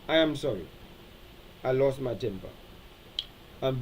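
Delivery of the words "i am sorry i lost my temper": soft, low "I am sorry. I lost my temper."; sincere apology. Shown as a demonstration. Pastor demonstrating a sincere sorry, quiet and low. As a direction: say it simply and quietly. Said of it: "That's called expressing regret".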